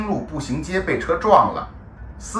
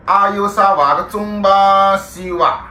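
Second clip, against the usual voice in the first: dying words in Shanghainese; 6 semitones higher, 4 dB louder than usual. Shown as a demonstration. Dying words, two takes.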